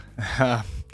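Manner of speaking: brief, small chuckle; a quick breath of laughter; short laugh. Real, not acted. Reader amused at knowing what happens, short chuckle. Amused aside after reading.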